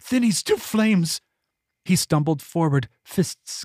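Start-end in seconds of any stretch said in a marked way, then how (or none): 0.1-1.2 a much higher, strained cry of doom; frantic mad outburst. Acted. Madman Eeples repeating his curse, higher and frantic. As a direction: shriek the sentence out in a frenzy.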